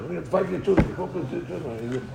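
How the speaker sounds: slow it down and lean on fight; slow emphatic repeat. Shown as a demonstration. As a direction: drive the lesson home slowly. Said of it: "repeated slowly for emphasis".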